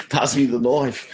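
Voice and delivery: slow, hammed-up Australian drawl; broad mock-Australian; exaggerated Aussie accent. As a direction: lay the Aussie vowels on thick, slowly. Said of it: "trying to do a bloody Aussie accent".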